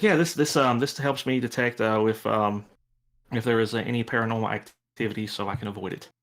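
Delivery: put-on halting nervous kid, full of ums; lightly acted nervous hesitation; nervous nerdy kid. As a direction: stammer through an anxious explanation. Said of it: "very nervous energy".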